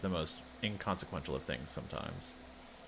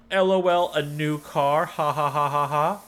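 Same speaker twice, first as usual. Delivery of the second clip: mocking laugh; 6 semitones higher, 8 dB louder than usual. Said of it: "I'm like".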